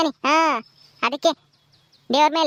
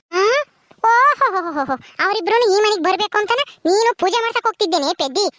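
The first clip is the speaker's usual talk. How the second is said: mocking scorn; 4 semitones higher than usual. Aunt mocks girl's prayers loudly.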